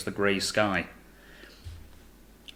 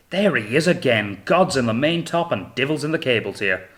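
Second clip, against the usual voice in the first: "There he is again" a little raised, falling at the end; mild excitement; 4 semitones higher, 5 dB louder than usual. Acted. Finch muttering about God and devil.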